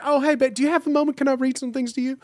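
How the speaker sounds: high, sugary Southern welcome; mock Southern drive-thru voice; sweet Southern greeting. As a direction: greet her at heaven's gate like a drive-thru regular. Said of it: "Saint Peter is just Fitzy".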